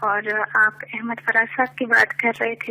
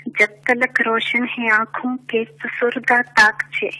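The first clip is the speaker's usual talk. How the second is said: measured poetic recitation, lower; stately nazm recitation; 3 semitones lower than usual. Acted. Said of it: "ایک نظم پیش کرنا چاہوں گی".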